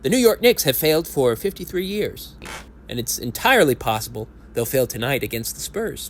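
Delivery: grand, solemn orator building the case; rousing speech. Acted. Speaker addressing fans before the game, rousing oratory. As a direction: deliver it like a stirring pre-game address.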